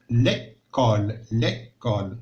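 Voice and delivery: ليكول drawn out, last sound held; slow dictation. Shown as a demonstration. Teacher dictating to pupils, slowly. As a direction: stretch ليكول.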